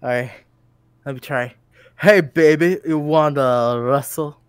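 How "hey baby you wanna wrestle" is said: slow, louder cheesy come-on; a hammed-up slow cheesy pickup line; smooth pickup line. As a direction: lay it on thick and slow. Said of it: "why did you say it like that?".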